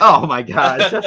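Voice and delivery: breaking into loud laughter; cracking up, can't hold it; laughing. Real, not acted. Both cracking up.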